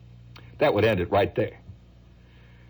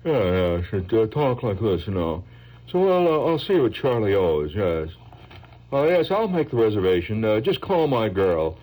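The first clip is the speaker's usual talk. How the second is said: slick ad man. Retold or imitated. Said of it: "he had this swinging jaw".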